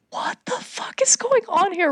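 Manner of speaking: high-pitched mock disbelief; baffled reaction. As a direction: retell your own bewilderment in a high voice. Acting out own baffled reaction.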